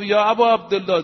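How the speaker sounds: loud, earnest call to the Imam; loud earnest address. Acted. Companion calling out to Imam Husayn, loud and earnest. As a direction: declare it fervently.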